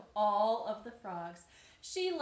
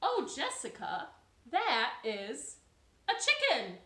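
wise frog; 3 semitones higher, 8 dB louder than usual. Acted. Marilyn naming the hatchling, mock knowing. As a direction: announce it like it's obvious. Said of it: "And Marilyn said".

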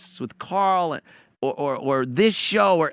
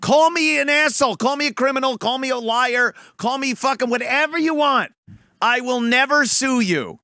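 mock defiant rant; 4 semitones higher than usual. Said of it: "I'm not an idiot like you that's gonna".

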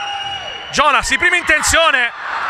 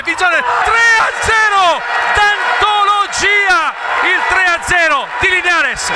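goal scream; 6 semitones higher than usual. Real, not acted. Goal call in futsal commentary.

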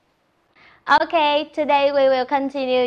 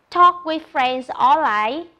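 slow model; slower than usual. Shown as a demonstration. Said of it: "Look at the picture and say".

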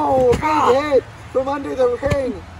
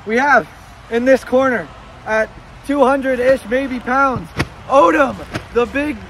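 ring announcer; 5 dB louder than usual. Acted. Mock ring announcer intro.

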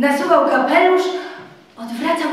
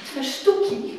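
Telimena furious. Acted. Telimena accuses Tadeusz of betrayal, furious. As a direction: lash out, bitter and wounded.

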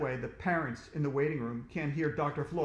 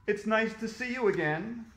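higher, sing-out cheery welcome; cheerful; 7 semitones higher, 4 dB louder than usual. A narrator's reading. Dentist welcomes AJ back, cheerfully. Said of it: "she said cheerfully".

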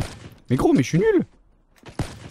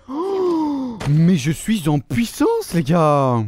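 excited boast; 2 semitones higher, much slower than usual. Real, not acted. Gamer boasting after kills.

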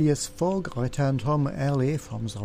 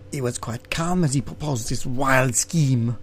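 a hint of a French servant, lightly voiced; Passepartout's voice. Shown as a demonstration. Reading the game text as the servant, lightly voiced. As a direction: narration redone as the French valet, barely changed. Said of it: "I should do that bit in Passepartout's voice".

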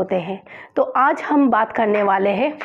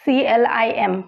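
whispered spelling. Shown as a demonstration. Teacher whispers the letters to stop at M. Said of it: "यहाँ तक ही हमें बोलना है".

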